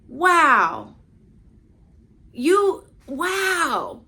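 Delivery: overwhelmed, lost for words; awestruck wow. Retold or imitated. Handed the car keys, she gasps in awe. Speechless reply to pastor.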